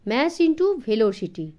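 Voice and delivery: spelled out slowly, word by word; deliberate, slow teaching phrase; slow explanation. Acted. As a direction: lay out each word slowly like a lesson. Explaining physics term slowly.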